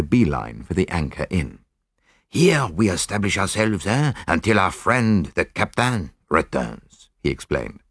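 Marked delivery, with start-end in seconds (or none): 2.3-7.1 put-on lightly accented, deliberate detective; measured foreign-sounding sleuth, lightly voiced; Poirot.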